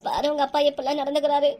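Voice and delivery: loud, tearful complaint. Acted. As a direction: wail it out as if crying. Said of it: "அழாதம்மா".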